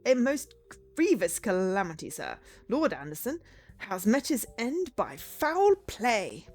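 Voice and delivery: slow, dramatic butler announcement; grave formal butler. Acted. Butler tells detective of his lord's death, grave formality. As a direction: lean portentously on the dreadful news, lightly acted.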